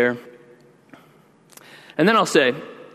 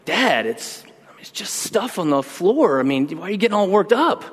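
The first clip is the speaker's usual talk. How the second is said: imitating child; 4 semitones higher than usual. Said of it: "one of them will say something like".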